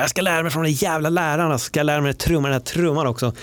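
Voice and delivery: lightly mocking pretend resolve; mock eager student. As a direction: parody a keen pupil vowing to learn. Mocking imagined self-talk.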